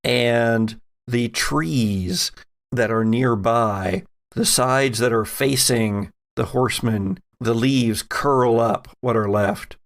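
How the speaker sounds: measured, slow scene-setting narration; game master scene narration. A narrator's reading. Game master describing the horseman rising from the grave. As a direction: set the eerie scene for the players.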